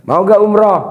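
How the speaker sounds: hyped call. Real, not acted. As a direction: pump up the crowd with a shout. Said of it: "Jangan maunya aja, semangat".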